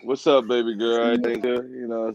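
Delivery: very low, soft flirting act; mock smooth caller, deep and quiet; low phone voice. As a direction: drop way down to sweet-talk her. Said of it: "people voice getting low".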